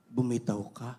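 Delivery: low, calm divine command; voice from heaven. Acted. God telling the hanging missionary to let go, low command. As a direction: drop low like God answering. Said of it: "Narinig niya yung tinig".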